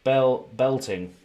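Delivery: Bel-, belting said slowly, a clear L in belting; careful belting. Shown as a demonstration. Card opener showing chat how he says belting, carefully. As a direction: spell out the L sound in belting, slowly.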